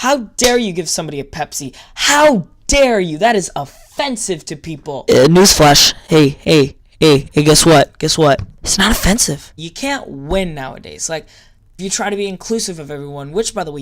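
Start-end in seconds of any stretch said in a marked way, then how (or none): 0.0-5.1 mock outrage. Parodying offended viewers with mock outrage. 5.1-9.5 loud, low taunting call; mock taunt. Taunting easily offended critics, loud and mocking.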